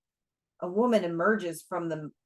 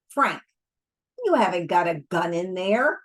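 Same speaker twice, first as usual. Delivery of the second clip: snarling taunt; 4 dB louder than usual. Acted. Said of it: "her upper lip curling into a genuine snarl".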